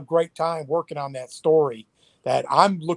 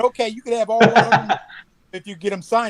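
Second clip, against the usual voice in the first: laughing retelling; 7 semitones higher, 5 dB louder than usual. Retold or imitated. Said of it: "I said".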